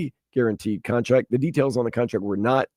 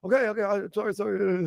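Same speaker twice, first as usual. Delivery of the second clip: timid apology; 7 semitones higher, 5 dB quieter than usual. Retold or imitated. Customer backs off apologizing.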